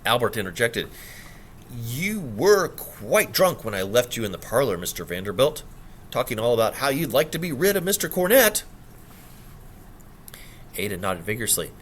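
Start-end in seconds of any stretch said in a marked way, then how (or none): 1.7-8.6 Albert's voice. Acted.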